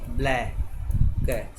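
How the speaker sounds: ब्लैक drawn out very slowly; teacher spelling aloud, sounds out ब्लैक slowly; slow demo. Shown as a demonstration. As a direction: stretch ब्लैक so students hear every sound. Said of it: "कैसे लिखते हैं?".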